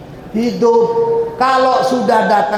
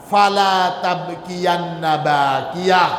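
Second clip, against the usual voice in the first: ringing recitation; slower than usual. Shown as a demonstration. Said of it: "Fa idza wajaba".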